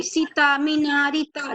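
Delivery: सीता, मीना, रीता said quickly with short vowels; no weight on the first syllables of सीता, मीना, रीता; quick, unstressed. Shown as a demonstration. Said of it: "जल्दी से मतलब बोल देते हैं".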